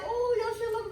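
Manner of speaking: high, squealing hype; excited squeal. Pretend. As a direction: gush over nice teeth, way up high. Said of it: "and I can be like".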